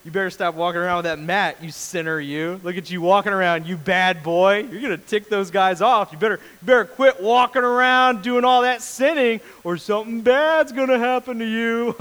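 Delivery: playful fake telling-off; mock scolding. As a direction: tease him with a pretend reprimand. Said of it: "he was kinda mocking the Pharisees".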